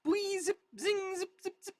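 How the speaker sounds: high, quick zips and zings; whizzing bullet noises. Acted. Reader voicing sniper fire, high bullet noises.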